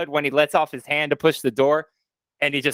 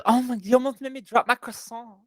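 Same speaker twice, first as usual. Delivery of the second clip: high-pitched imitation of a startled kid; 8 semitones higher than usual. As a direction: mimic a scared kid in a high voice. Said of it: "that kid running up the stairs".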